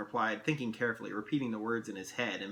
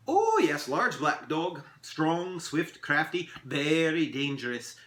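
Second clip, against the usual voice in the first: high, loud "oh", then measured list; warning elf; 4 semitones higher, 4 dB louder, slower than usual. Acted. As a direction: relish each adjective, ending slow. Elf describes beast.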